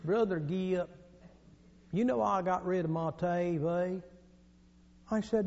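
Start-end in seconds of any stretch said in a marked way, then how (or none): 0.1-4.0 soft, heavy Southern drawl; Southern gentleman. Acted. Southern gentleman confiding in a college friend, slow Southern drawl. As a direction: stretch the vowels in a slow Southern accent. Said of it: "there was a sweet Southern gentleman".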